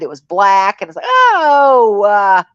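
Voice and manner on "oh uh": mock disgusted viewer. Mock viewer paying to avoid finger.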